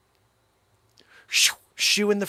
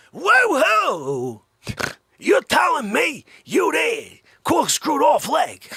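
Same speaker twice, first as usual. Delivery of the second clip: higher, louder, slow mock yell; hammed-up outrage; 9 semitones higher, 6 dB louder, slower than usual. Comedian ranting at the run-over victim, a loud, slow mock yell. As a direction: bellow it in comic disbelief.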